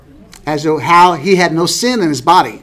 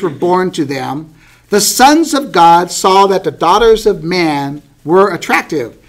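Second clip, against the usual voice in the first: measured Bible-reading voice; scripture reading. Acted. Teacher reading Genesis to the class, measured scripture reading. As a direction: read the verses aloud, deliberately phrased.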